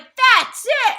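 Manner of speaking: high, loud fed-up outburst; fed-up shout. Retold or imitated. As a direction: burst out, done with it. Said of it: "And I was like".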